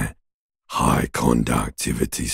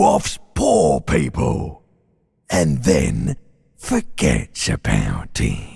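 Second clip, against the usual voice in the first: mounting accusation; 4 semitones higher than usual. Acted. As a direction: pitch climbing into a high, scornful jab.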